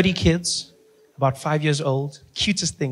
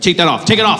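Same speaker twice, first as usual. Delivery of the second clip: irritated agent; 4 dB louder than usual. Retold or imitated. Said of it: "he's just losing it".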